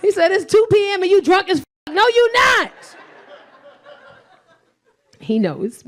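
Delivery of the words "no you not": high squeal. Retold or imitated.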